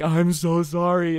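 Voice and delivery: high, slow "I'm so sorry" through giggles; an apology that keeps cracking into a laugh. Retold or imitated. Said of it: "coming out really bad 'cause I'm like".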